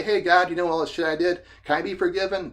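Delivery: a hammed-up guilty father asking God to forgive him; mock plea to God.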